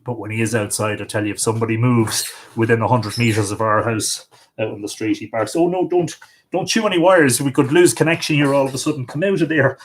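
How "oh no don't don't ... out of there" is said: higher, quick warning to the dog; scolding a dog. Real, not acted. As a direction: tell the dog off, half amused.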